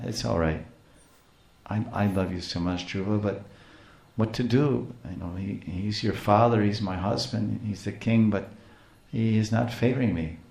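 softly acted consoling mother; gentle soothing. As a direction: comfort an upset son, gently. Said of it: "spoke very gentle, soothing, soft words".

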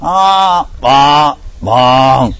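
high, loud cow cry; high soprano moo. Pretend. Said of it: "that's like a soprano".

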